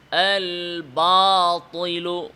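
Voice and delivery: আল বাতিলু drawn out slowly; slow tajweed demo. Shown as a demonstration. Teacher repeating the word for students, slow recitation. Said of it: "তাহলে এটা কিভাবে পড়তে হবে?".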